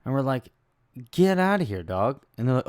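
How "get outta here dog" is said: loud, scoffing get outta here; loud brush-off. Retold or imitated. Turning down the shop's price, a loud scoff. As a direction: wave off the price loudly. Shop tries to overcharge them.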